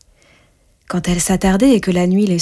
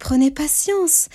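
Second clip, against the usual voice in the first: patient reassurance; 8 semitones higher, slower than usual. Acted. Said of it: "dit Neige Blanche".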